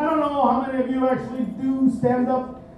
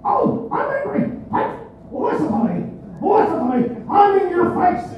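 angry comic impression; 3 semitones higher than usual. Comic mocking an angry stand-up, hammed-up rage. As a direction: ham up the furious comic, barking at the crowd. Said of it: "There's this guy".

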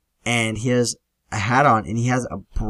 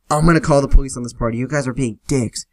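loud, fast threat; mock angry screaming; 2 semitones higher, 6 dB louder, faster than usual. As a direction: imitate an angry host screaming at guests. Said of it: "he's screaming at us".

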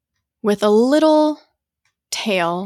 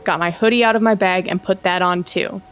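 brisk, low-key first-person storytelling; story read aloud; 3 semitones lower, faster than usual. Acted. Host reads co-host an eerie forest tweet, story read aloud.

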